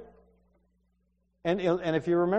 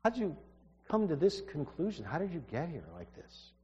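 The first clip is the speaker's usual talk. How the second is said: softer, trailing off to a near hush; gentle searching question; 9 dB quieter than usual. Shown as a demonstration. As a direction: ask it gently, as if close to him. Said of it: "He meant, like, here".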